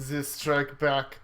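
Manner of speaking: slow, grand announcement; mock-epic slowed delivery; dramatic title. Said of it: "dramatic chapter title".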